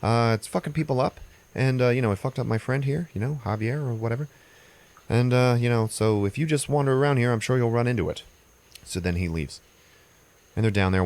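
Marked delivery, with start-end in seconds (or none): 0.0-8.2 lightly voiced fussy manager, higher; a hint of a fretful little boss, pitched higher; fussy venue manager. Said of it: "And he's like".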